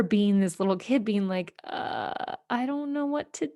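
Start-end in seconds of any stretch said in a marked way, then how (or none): 1.6-3.5 put-on lost child. Kid lost, mom crying.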